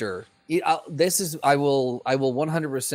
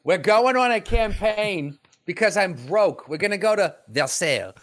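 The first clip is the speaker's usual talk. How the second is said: higher, hammed-up period-film delivery; a mock movie star declaiming, pitched up; Matt Damon; 5 semitones higher than usual. Impersonating an actor going on campaign, hammy mock delivery. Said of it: "Matt Damon just goes".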